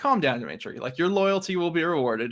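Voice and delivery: ordinary talk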